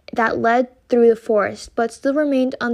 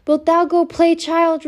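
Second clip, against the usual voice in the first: mother repeating; 6 semitones higher than usual. Acted. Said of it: "repeated her mother".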